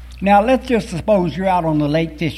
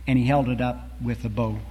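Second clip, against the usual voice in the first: poem recitation. Acted. Preacher reciting a beloved poem to the congregation, solemn and measured. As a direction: recite it like a cherished old poem.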